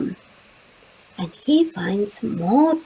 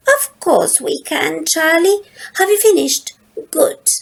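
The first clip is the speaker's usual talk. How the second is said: 1 Lola, bright and eager; 7 semitones higher, 4 dB louder than usual. A narrator's reading. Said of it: "And Lola says".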